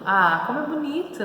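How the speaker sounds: lightly acted wonder at something lovely; admiring. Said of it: "tá ali admirando".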